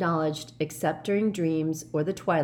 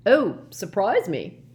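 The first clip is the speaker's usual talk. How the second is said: slow, loud, carefree wave-off; breezy professor shrug; airy; 4 semitones higher, 6 dB louder, slower than usual. A narrator's reading. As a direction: toss it off lightly. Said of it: "said Slughorn airily".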